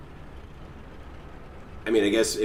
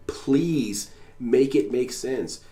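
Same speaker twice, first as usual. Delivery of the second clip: pleading scream; 3 semitones higher, much slower than usual. Retold or imitated. Imagined plea to the streamer, slow and pressing. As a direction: beg him to make sense, word by word. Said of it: "scream at him".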